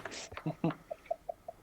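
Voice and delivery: quiet suppressed giggle; stifled laugh. Real, not acted. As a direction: try to hold back a laugh. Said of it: "I'm trying not to laugh too much".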